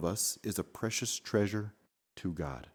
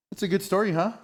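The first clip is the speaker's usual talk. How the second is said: delighted praise; 11 semitones higher, 5 dB louder, faster than usual. Real, not acted. Mom praises her son's story, delighted and high.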